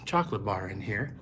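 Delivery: breathless after running upstairs; out of breath. Real, not acted. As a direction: talk while catching your breath. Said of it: "Sorry, I'm out of breath".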